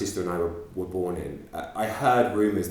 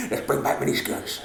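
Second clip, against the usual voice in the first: creepy dad whisper; 6 semitones higher than usual. Pretend. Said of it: "Said the creepy dad".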